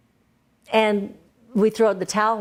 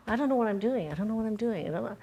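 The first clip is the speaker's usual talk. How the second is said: fading despair; 2 semitones higher, 8 dB quieter, faster than usual. Retold or imitated. Recalling her overwhelmed week.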